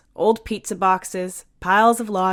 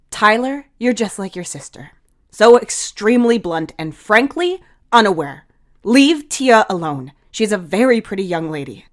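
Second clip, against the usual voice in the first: raised, firm telling-off; stern scolding; 4 semitones higher, 8 dB louder than usual. Acted. Heath scolding Tyler for mocking Tia, stern loud telling-off. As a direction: put the kid in his place, loud and high. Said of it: "Heath glares at both Tyler".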